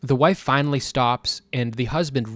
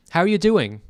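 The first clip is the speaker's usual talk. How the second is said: higher, forced friendly greeting; mock salesman cheer; massive fake smile; 5 semitones higher than usual. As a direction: greet through a fake grin. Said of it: "with the same massive fake smile".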